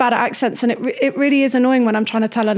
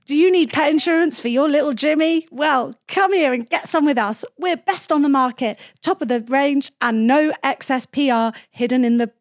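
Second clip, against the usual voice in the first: higher, bouncy silly insurance advert; hammed-up salesy pitch, pitched up; 4 semitones higher than usual. Shown as a demonstration. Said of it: "I think try silly".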